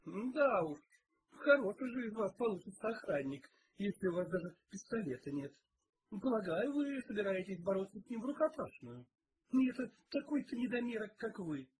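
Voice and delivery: exasperated. A narrator's reading. Cook mocks the unarmed detective, exasperated. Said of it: "Кухарка не выдержала".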